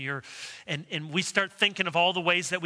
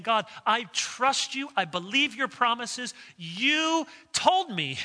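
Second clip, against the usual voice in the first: sincere prayer; 5 semitones higher than usual. Retold or imitated. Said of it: "we're saying".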